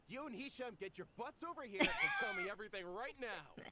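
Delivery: demanding shout. Acted. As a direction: bark them over, impatient. Demanding friends come explain.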